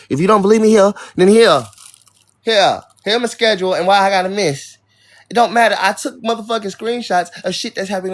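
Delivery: real frustration at viewers doubting her; angry. Real, not acted. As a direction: push back hard at the chat. Angry rant at chat about schedule.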